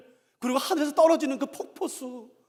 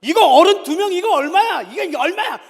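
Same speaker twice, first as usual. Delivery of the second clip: loud, high-pitched demand; shouting old man; 6 semitones higher, 10 dB louder than usual. Retold or imitated. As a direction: holler the question, stretching it out. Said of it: "소리 지르실 때 할아버지가".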